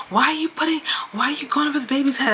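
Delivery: high-pitched mock indignation; retold annoyance. Host imitates Huda mad about the baby race, mock-annoyed. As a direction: imitate her complaining, pitch jumping up. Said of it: "Huda got mad because she's like".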